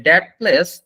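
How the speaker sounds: very slow, each word spelled out for learners; slow demo sentence. Shown as a demonstration. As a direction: read it out slowly like a teacher. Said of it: "যেটা প্রথম কয়েকটা class আমরা রাখবো".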